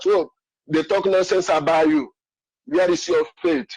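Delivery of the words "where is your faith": pitched much higher, ringing out; impassioned high plea. Acted. Caller appealing to Biafrans, high impassioned plea. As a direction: cry it out to the whole audience.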